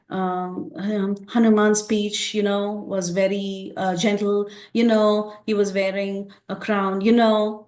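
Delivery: "you know" dropped in between phrases; filler-laden speech demo. Shown as a demonstration. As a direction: demonstrate the habit of inserting "you know". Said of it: "So we say".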